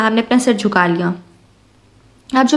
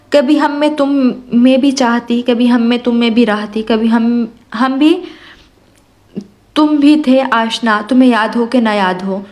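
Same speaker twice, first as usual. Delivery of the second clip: poetry recitation. A narrator's reading. Recites a verse mid-story. (شاعری ٹھہر ٹھہر کر پڑھتے ہوئے)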